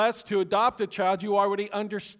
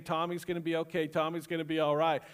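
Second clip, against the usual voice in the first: a touch of soft soothing; softly reassure, as if to oneself; consoling murmur; 2 semitones lower, 4 dB quieter, faster than usual. Retold or imitated. Dad keeps consoling himself.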